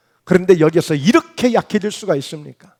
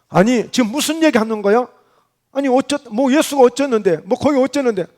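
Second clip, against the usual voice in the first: higher-pitched, stumbling mock bafflement; feigning ignorance; 3 semitones higher than usual. Peter denies knowing Jesus to questioners, playing dumb. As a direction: brush the question off as if clueless. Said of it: "전혀 모르는 것처럼 반응하고 있는 거야".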